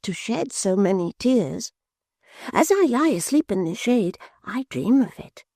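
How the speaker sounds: put-on high, eager simple-minded young man; excited lad telling of the gold sky; high wondering youth, slowing at the end; Barnaby's voice. Barnaby describing his wanderings.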